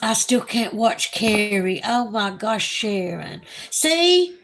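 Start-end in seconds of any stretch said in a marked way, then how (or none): 3.7-4.4 tearful. Real, not acted. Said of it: "I'm crying".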